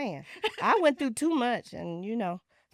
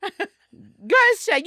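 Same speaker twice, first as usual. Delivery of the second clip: slow, higher, laughing through it; 8 semitones higher than usual. Real, not acted. Repeating her line to a laughing friend, laughing. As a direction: say it again while breaking up laughing. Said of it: "just the way you said it".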